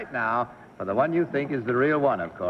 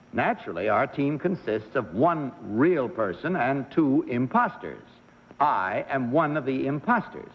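measured, deliberate reading of a sworn statement; formal statement read-aloud; 3 semitones lower than usual. Acted. Host reads the contestant's affidavit to the panel, formal read-aloud.

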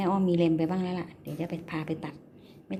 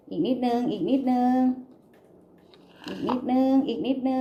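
higher, louder coaxing; eager urging; 5 semitones higher, 4 dB louder than usual. Real, not acted. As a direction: urge it on, voice climbing. Urging rabbit, rising pitch. (เร่งเร้าเสียงสูงขึ้น)

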